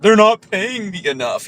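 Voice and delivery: sneering impression of a whiny YouTuber; mocking whine. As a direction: quote him in a mild mock whine. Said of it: "he cried about it".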